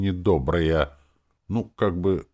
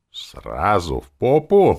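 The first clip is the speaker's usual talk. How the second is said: slow, louder indignant question; 5 semitones higher, 9 dB louder, slower than usual. A narrator's reading. Hero indignant at the demon's story, slow and louder. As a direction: drag out the outrage. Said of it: "возмутился я".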